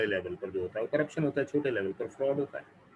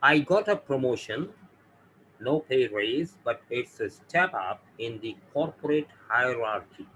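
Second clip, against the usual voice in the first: slow reading; much slower than usual. Shown as a demonstration. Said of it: "यहाँ example दी है मैंने".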